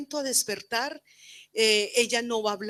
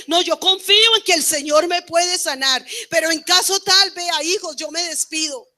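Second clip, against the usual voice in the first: raised, emphatic farewell, pitched higher and louder; imagined farewell; 6 semitones higher, 8 dB louder than usual. Retold or imitated. Mother pictures saying goodbye to her children, raised and emphatic.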